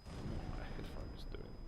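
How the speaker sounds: whispered to herself, slowly. Real, not acted. Streamer checking her headphones, slow whisper. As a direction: hush it, puzzled about the headphones.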